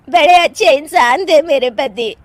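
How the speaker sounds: slow, drawn-out lament; tearful mourning. Acted. Widow mourns her husband among neighbours, tearfully lamenting. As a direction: mourn your husband aloud. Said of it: "वहां पर सब रो रहे होते हैं".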